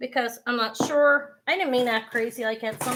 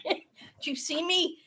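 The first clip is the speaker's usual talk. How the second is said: high, weak voice left over from laughing; real laughter still bubbling up; laughing to tears; 4 semitones higher than usual. Real, not acted. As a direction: squeeze words out between giggles. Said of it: "laughing so hard that I'm fucking crying".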